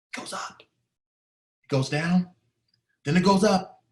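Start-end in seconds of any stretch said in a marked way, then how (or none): 0.1-0.6 hushed whisper, holding breath. Real, not acted. Watching his teacher's last breath, whispered. 0.6-2.3 very slow, stretched final words; slow, drawn out. Real, not acted. Watching her final breath fade, slowly drawn out.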